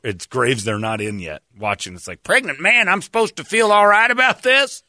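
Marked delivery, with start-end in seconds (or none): 2.2-4.8 high, mock-baffled outrage; pitched-up disbelieving viewer; incredulous. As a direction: play a viewer who can't believe it.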